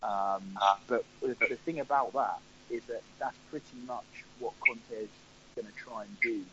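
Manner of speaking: bad line, voice dropping out; patchy connection, volume fading away. Real, not acted. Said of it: "you sound like you're on the International Space Station".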